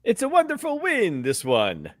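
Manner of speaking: put-on lilting Italian accent, starting high and falling away; half-hearted put-on Italian accent. Co-host celebrating his win on demand, in a shaky attempt at an Italian accent. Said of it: "celebrate it in an Italian accent".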